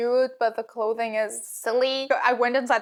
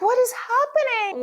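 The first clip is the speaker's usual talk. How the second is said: much higher, baffled cry; stunned, can't believe it; shocked; 11 semitones higher than usual. Retold or imitated. Quoted shock.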